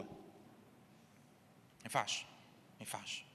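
slow, hushed, voiceless repeat; emphatic whisper. Real, not acted. Preacher tells congregation it cannot happen, whispered. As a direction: drop right down to a drawn-out whisper.

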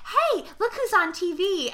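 high, loud, slow taunt; mock taunting killer. Retelling the killer taunting Molly, loud mock glee. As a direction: gleefully taunt the waking girl.

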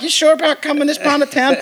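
1 imitating Provenza. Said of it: "Provenza's like".

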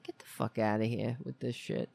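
low, grumbled get-lost to the cat; muttered brush-off. Retold or imitated. Owner grumbling the cat away, muttered brush-off. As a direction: grumble it under your breath, fed up. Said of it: "I'm like".

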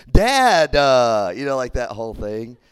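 high, loud mortified "Dad"; embarrassed teen protest. Retold or imitated. Older cousin cringing at her dad, loud high protest. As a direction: whine it out like a mortified kid. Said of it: "older cousin would be like".

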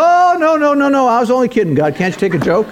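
high, hasty mock panic, then a sheepish laugh; hammed-up Moses taking it all back; Moses backpedaling. Moses begging God not to destroy the people, hammed-up panic. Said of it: "And Moses says".

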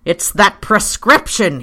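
panted. A narrator's reading. Pyecraft struggles down the wall explaining, mildly panting. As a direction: push the words out with effort. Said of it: "he panted as he did so".

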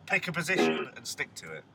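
a light, put-on Phil Jones accent; mock the footballer in a Phil Jones accent; half-hearted Phil Jones accent impression. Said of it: "What is this accent?".

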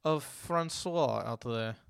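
badly faked French accent. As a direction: put on a half-hearted French accent. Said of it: "bad accent".

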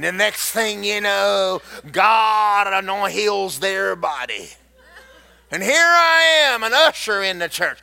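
lightly voiced resentful church member, swelling to shouts; a hint of an aggrieved church lady, shouting at times; complaining churchgoer. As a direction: gripe like a self-righteous usher.

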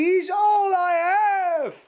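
high, slow, tearful plea; imitating Kathryn Kuhlman weeping; crying. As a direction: cry the words out, stretched and pleading. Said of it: "En toen begon ze te huilen".

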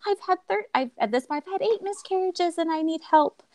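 high, strained retold crying voice; imitating her sobbing plea; tearful plea. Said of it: "I was bawling".

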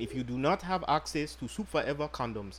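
put-on understated African accent, formal sales pitch. Host pitches condoms to female listeners, light mock African accent. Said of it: "You sound African right now".

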